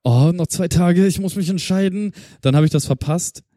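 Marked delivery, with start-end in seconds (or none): 0.0-2.1 quoting himself in a mock panic over a discount; mock flustered excitement. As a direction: play your own past panic over a sale. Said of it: "Und ich war so".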